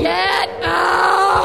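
sharp furious yell; angry yell. Acted. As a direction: throw her out with one blast. Lauren throws mother out.

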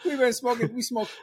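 can barely get it out for laughing. Retold or imitated. Recalling the smoky car to the hosts, laughing high. Laughing while retelling the story.

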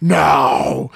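mock-stern, low-pitched refusal; insistent refusal. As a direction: refuse firmly, stretching the word. Retold urgent refusal to wait.

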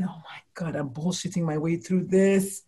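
1 hushed inner worry. Retold or imitated. Retold private bedtime thought.

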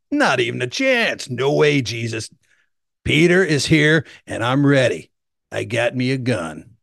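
cocky Southern redneck bravado. Retold or imitated. Peter vowing to protect Jesus, mock Southern redneck. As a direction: swagger like a redneck bodyguard with a Southern accent. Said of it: "Southern redneck guy".

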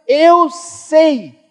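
high, loud preacher's cry; emphatic declaration. Retold or imitated. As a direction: proclaim it to the whole church. Recalls declaring prophecy to her.

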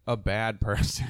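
"a bad person" hit hard and loud; emphatic. Real, not acted. Weighing shady guys against the truly awful, emphatic. Contrasting with milder character flaws.

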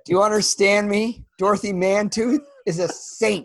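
upset, hammed-up threat; mock threat. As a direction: deliver the quote as an indignant warning. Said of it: "it's such a threat".

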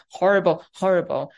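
mock self-put-down; mock self-deprecation. A CEO listing her supposed flaws, mock self-deprecating. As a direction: play up the self-mockery. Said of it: "I'm horrible, right?".

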